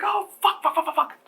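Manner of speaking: high, frantic rapid-fire cursing; panicked swearing. Acted. Girls alarmed by the screaming girl, panicked. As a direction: spill out curses in acted panic.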